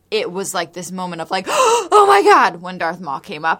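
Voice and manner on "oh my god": high, slow gasped awe; mock amazement. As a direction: gasp it out in wonder. Mock gasp at Darth Maul.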